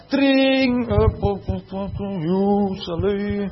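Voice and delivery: tossed-off greeting like a student walking past; hammed-up casual pupil chatter; mock careless teen.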